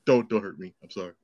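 put-on cowed eight-year-old. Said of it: "I'm eight years old again".

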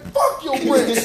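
hammed-up fury; mock angry driver. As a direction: imitate a racer lashing out at engineers. Driver kicking engineers' wrenches.

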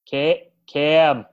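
put-on Cam said in a Boston accent. Cohost testing his Boston accent on Cam's name. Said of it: "can either of you do a good Boston accent".

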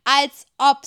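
loud, scornful "Als ob"; the father loudly dismisses Isa's excuse; scoffing. Acted.

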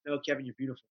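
soft, low-key reassurance to himself; hushed, understated self-kindness; gentle self-correction. Retold or imitated. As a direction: counter the self-criticism quietly. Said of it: "immediately reverse it".

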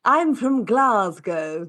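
put-on slow, drawn-out Glasgow accent; mock Glaswegian. Trying out an assigned accent, slow hammed-up Glaswegian. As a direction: overdo a Glaswegian accent, stretching the words. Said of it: "You're doing Glaswegian".

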